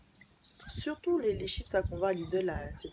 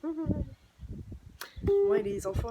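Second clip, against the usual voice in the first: laughing gush; 8 semitones higher, 4 dB louder, much slower than usual. Real, not acted. Gushing about children.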